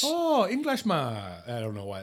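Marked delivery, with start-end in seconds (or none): 0.1-1.0 put-on botched French accent. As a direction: attempt a French waiter's accent and miss. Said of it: "That sounded very, like, Asian".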